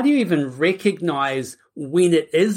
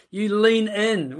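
laughing; 4 semitones higher, slower than usual. Real, not acted.

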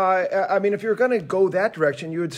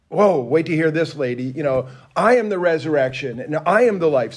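emphatic comeback, lightly acted; Jesus matching energy; 4 dB louder than usual. Jesus answers Martha's outburst, with matching energy. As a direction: meet her energy with a punched "I am". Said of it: "he meets her energy with his energy".

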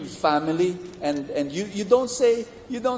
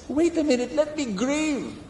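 pleading to grieve; 10 semitones higher than usual. Retold or imitated. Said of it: "and she says".

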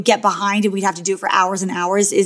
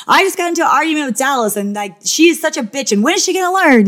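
mock catty confessional; 5 semitones higher, faster than usual. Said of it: "you just got into an argument with this girl. Tell us about that".

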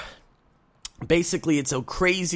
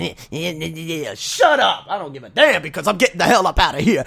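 mock hallway neighbors; 6 dB louder than usual. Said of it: "people outside in the hallway are saying".

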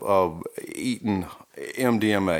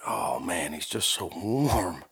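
soft pitying; 2 semitones lower, 6 dB quieter, slower than usual. Retold or imitated. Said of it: "I'm like".

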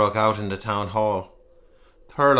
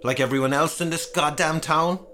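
angry; 5 semitones higher than usual. Acted. Heated quarrel with wife.

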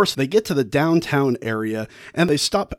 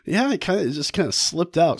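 sheepish confession; 6 semitones higher than usual. Retold or imitated. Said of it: "The druggist is like".

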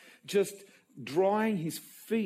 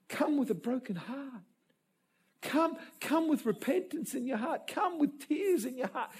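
tender invitation; 6 semitones higher than usual. Retold or imitated. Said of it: "Whereas Jesus was".

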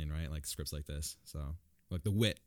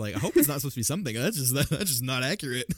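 mock baffled; 5 semitones higher, 4 dB louder than usual. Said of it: "I was just like".

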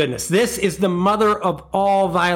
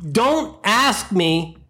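exasperated rant. Real, not acted. Ranting at imagined gas beggar.

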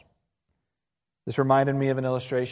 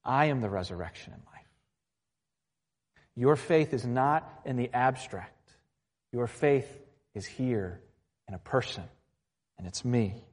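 gentle Jesus. Retold or imitated. Jesus redirects grieving sister's gaze to himself, gently. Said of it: "Jesus just gently says".

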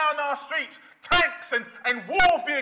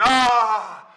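lightly voiced dismissive skeptic; a hint of a carefree doubter; mock complacent man; 3 semitones higher than usual. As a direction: brush off the danger, a touch smug. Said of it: "the non-Christian man saying".

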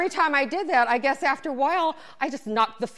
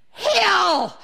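high, loud imitated instructor call; instructor's shouted command; 9 semitones higher, 7 dB louder than usual. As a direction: yell it across the spin class. Instructor calls out the hill.

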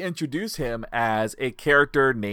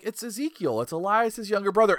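breezy insistence; 5 semitones higher than usual. Retold or imitated. Voicing everybody insisting to the upset wrestler.

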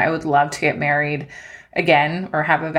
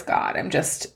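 tearful breath; 5 dB quieter, slower than usual. Real, not acted.

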